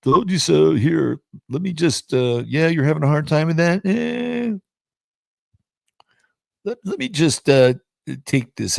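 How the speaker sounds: mocking the betrayed, high and gleeful; gloating gang. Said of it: "The Schadenfreude gang is like".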